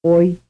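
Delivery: one syllable, gliding off; vowel plus semivowel. Shown as a demonstration. Teacher demonstrating an off-glide. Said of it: "vowel sound, o, followed by the semivowel".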